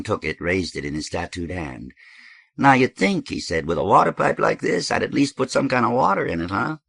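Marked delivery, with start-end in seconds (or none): 2.6-3.3 high, loud, animated storyteller's character; lively, high-pitched griping; animated dope host. Acted. Voices Thirteen in story. 3.7-6.8 high, loud, animated storyteller's character; lively, high-pitched griping; animated dope host. Acted. Voices Thirteen in story.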